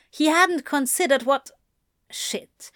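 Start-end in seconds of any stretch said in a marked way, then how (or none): 2.1-2.7 a breathless whispered shit; whispered curse. Acted. Crowley realising his mistake, whispering shit. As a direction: mutter it under your breath in dawning horror. Panicked realisation, then outburst.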